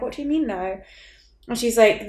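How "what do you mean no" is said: softer, straight-faced what do you mean no; deadpan. Retold or imitated. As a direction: keep it level, hide any reaction. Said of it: "I really kept a straight face".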